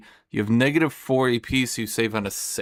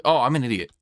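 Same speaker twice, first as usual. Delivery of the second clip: ordinary talk, nothing marked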